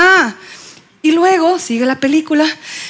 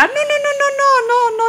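high squealed no; 11 semitones higher than usual. Acted. Comic denial, high voice.

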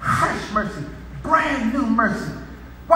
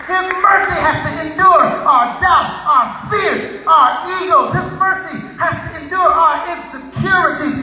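high, driving preacher's cadence; impassioned preaching; 6 semitones higher than usual. Real, not acted. Preacher listing human failings to congregation, impassioned preaching. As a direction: pound out the litany, each line landing hard.

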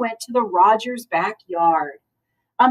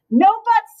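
firm no buts; 11 semitones higher, 5 dB louder than usual. A narrator's reading. Amelia Bedelia firmly refusing children.

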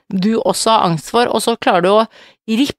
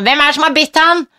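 mock granny; 6 semitones higher than usual. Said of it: "sier mamma".

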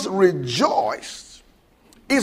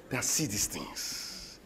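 much softer, lower confiding voice; said privately; 10 semitones lower, 16 dB quieter, slower than usual. Retold or imitated. Jesus turning privately to his disciples, soft and low. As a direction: lean in and tell them softly. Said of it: "and said privately".

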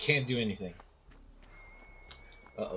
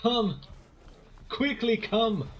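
put-on high voice; 9 semitones higher, slower than usual. Mocking the come chant.

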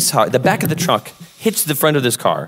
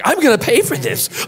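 meek echo; 12 semitones higher than usual. Retold or imitated. Meekly echoing the angry man.

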